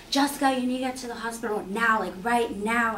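mild mock yell, rushed; retold phone scream. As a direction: imitate an urgent scream without really screaming. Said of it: "screaming on the phone".

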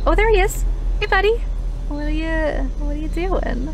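relieved to find the dog; excited relief. Real, not acted. Finds the lost dog.

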